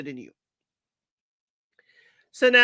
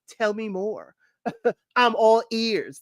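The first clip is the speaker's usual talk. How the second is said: imitating Titus; slower than usual. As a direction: lightly mimic his signature curiosity with a laugh. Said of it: "that's Titus's thing".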